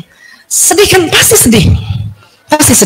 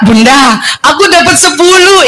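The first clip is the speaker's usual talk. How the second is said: put-on child telling; 3 semitones higher than usual. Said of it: "anak cerita".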